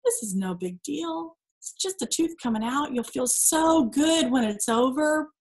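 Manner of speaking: soft, reassuring words to herself; calm yourself before the dentist; soothing self-talk. Retold or imitated. Speaker reassuring herself before tooth removal, soft and gentle. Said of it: "I listened to myself say".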